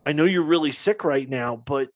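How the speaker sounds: a hint of consoling a sick friend; comforting. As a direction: retell how you gently reassured a sick friend. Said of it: "trying to be, like, comforting him".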